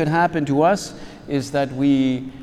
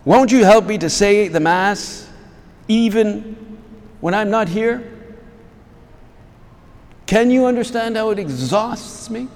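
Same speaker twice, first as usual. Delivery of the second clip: higher, imploring plea with pauses; pleading beggar; 8 semitones higher, 5 dB louder than usual. Retold or imitated. Father begging listeners to help him say Mass, pleading. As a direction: implore them like a beggar seeking alms. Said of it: "like a, like a beggar pleading for alms".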